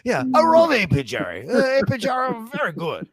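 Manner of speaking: high-pitched, singsong mock Asian accent; imitated Asian accent. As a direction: exaggerate a customer's Asian accent, pitch swooping up. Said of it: "he was an Asian American guy".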